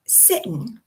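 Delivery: sitten, ending in n instead of ng; slow sitten with a swallowed ending; dropped ending. Shown as a demonstration. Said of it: "instead of ing, we get in".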